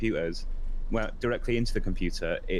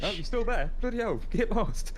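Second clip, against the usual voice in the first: yelling across the room; 10 semitones higher than usual. Real, not acted. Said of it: "I'm gonna shout across the room".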